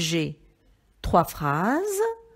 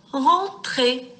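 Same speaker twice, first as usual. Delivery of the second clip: Rentrer in two loud, separate beats, REN and TRER; syllable by syllable; 6 semitones higher, 5 dB louder than usual. Shown as a demonstration. Teacher isolating the first syllable, Rentrer sounded out as REN-TRER. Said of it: "dans la syllabe".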